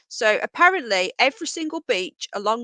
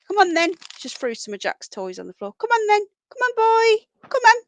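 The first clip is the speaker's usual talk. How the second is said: very high, louder coaxing pet call; treat voice; 11 semitones higher, 6 dB louder than usual. Real, not acted. Coaxing the rabbit over with the high treat voice. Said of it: "this is the treat voice".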